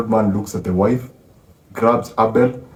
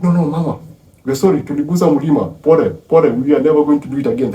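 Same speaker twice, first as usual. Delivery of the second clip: hasty apology; 5 semitones higher, 3 dB louder, faster than usual. Retold or imitated. Sons apologise to raging mother.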